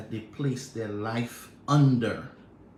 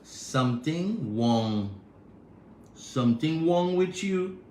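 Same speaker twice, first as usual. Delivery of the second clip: Trinidad accent; 2 semitones higher, slower than usual. Shown as a demonstration. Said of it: "That's what they say in Trinidad".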